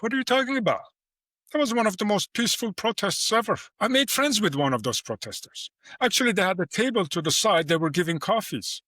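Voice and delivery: baffled police officer. Retold or imitated. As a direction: play the puzzled officer who can't believe the accusation. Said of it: "Police is like".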